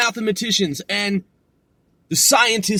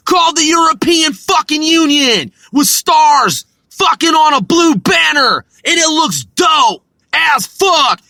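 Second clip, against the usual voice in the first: loud excited rant; 3 semitones higher, 5 dB louder than usual. Real, not acted. Praising the EU flag to Britain, loud excited rant. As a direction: shout it with fierce pride.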